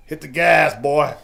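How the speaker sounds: put-on calm, level old-veteran order. War veteran father to son at the wheel, calm. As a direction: say it matter-of-factly, unhurried. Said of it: "real calmly says".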